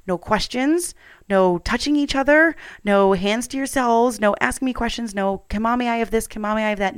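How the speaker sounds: lightly retold strict mom laying down the law; strict rules. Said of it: "I laid down these super strict rules".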